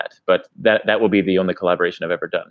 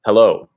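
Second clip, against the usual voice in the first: hello in an ordinary short delivery; casual greeting demo; 6 dB louder than usual. Shown as a demonstration. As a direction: say HELLO short, as a simple example. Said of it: "like, for example, if I said".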